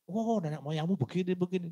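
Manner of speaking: a cheerful parent, pitched high; happy parent. Retold or imitated. Parent answering a child's question, cheerfully. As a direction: answer like a glad old father.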